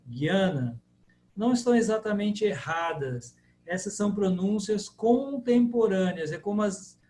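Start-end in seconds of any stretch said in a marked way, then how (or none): 0.1-0.8 "Guiana" with hard G and Y glide; contemporary variant. Shown as a demonstration. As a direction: say "Guiana" as "gui-A-na". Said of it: "tá errada a pronúncia". ("Guiana" com G duro, pronúncia moderna)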